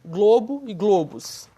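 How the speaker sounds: slow "globo e globos", the same "oh" in both; closed O. Shown as a demonstration. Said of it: "O mesmo O".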